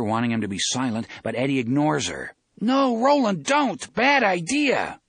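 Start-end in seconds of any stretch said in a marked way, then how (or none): 2.6-5.0 high, loud warning cry; urgent warning. A narrator's reading. Eddie warns Roland away from the door, urgent shout. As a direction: shout him back from a mistake.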